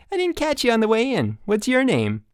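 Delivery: hearty counselor hello; peppy counselor. A narrator's reading. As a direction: greet him with big camp cheer.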